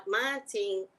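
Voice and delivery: "morning" said as "mantning"; "morning" with the r dropped; their pronunciation. Shown as a demonstration. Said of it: "That's how they say it".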